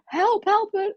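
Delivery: high, halting broken Spanish; a nervous tourist trying broken Spanish. Retold or imitated. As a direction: stumble over foreign words for help. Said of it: "in my s-, broken Spanish".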